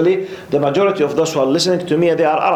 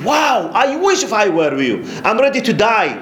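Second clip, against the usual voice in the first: awed envy; 6 semitones higher than usual. Retold or imitated. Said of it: "he was in a status of a feeling".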